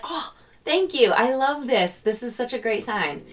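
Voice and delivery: high, bubbly thank-you; delighted thanks. Pretend. Seeker thanking the universe for a feather, high and delighted. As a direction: pick up the feather and gush.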